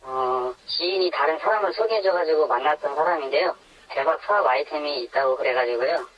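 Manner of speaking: anonymized voice filter for protection; voice-altered. Real, not acted. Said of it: "음성 변조로 진행되는".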